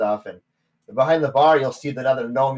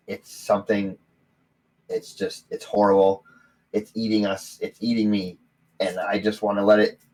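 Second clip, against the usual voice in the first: put-on old man warning of the haunted temple; frightened old man. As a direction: dread seeping through each word.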